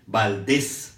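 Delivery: "Valdés" with the stress on the final -és; "Valdés" said carefully, accented on its last syllable. Shown as a demonstration. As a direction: land on the E of "Valdés", ending in a clear S. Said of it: "el acento en la E".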